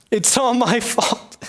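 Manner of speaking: slow moaning blame; self-pitying lament. Acted. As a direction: whine it slowly to yourself. First lament before louder wail.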